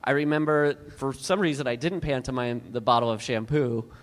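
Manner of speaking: normal talking voice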